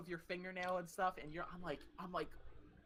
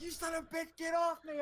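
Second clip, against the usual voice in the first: high, strained mock yell; acted-out angry struggle; retold cursing; 10 semitones higher than usual. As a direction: imitate cursing in a scuffle, pitched up. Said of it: "cursing at each other".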